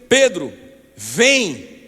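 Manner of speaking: loud, emphatic call. Acted. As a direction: call Peter with a strong, loud summons. Jesus calling Peter onto water. (chamando em voz alta)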